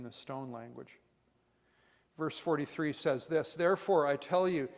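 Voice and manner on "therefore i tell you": loud, solemn declaration; emphatic. Retold or imitated. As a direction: punch THEREFORE with weight. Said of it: "it's emphatic".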